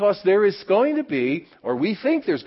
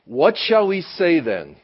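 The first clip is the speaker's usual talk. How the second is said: scripture reading; 3 dB louder, slower than usual. Real, not acted.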